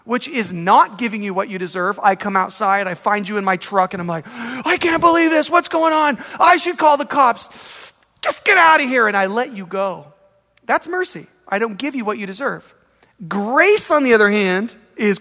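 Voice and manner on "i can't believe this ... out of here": high-pitched, worked-up disbelief; hammed-up exasperated outburst; acted exasperation. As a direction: protest in outrage, then dismiss the thief. Acts out exasperated mercy to thief.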